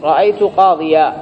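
slow قاضيا ending in long aa; ya not dropped. Shown as a demonstration. Teacher showing the accusative example, ya kept. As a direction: keep the y in قاضيا and lengthen the final aa. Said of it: "ما تحذف الياء".

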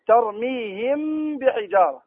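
slow tajweed recitation with held hum; recited example. Shown as a demonstration. Teacher showing students an example, slow recitation. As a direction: draw out the meem before the baa. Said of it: "الآن انظر لهنا".

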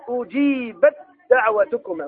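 أجيبت دعوتكما slowly with the ta merged into a doubled dal; slow recitation with assimilation; slow tajweed recitation. Shown as a demonstration. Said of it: "في نحو قوله تعالى".

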